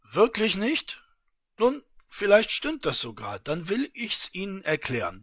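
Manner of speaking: a hint of a gloating official; smug official. Official explains the devilish gift.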